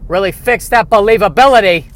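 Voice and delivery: Brian Regan style outrage, climbing in pitch; Brian Regan impression. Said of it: "I'm turning into Brian Regan there".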